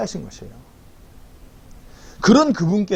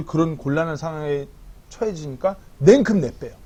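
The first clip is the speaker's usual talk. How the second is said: usual speaking voice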